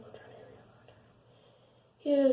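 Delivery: slow, high drawn-out whine; mock drawn-out. Shown as a demonstration. Telling viewers she's rushing the story, slow and high. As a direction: drag it out teasingly.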